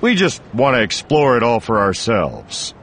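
casual tourist. Acted. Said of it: "trying to sound like a tourist".

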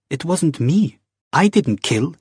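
high, panicky protest; frightened denial. Acted. Wife to Jamie, a scared high denial. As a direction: deny it fast, scared.

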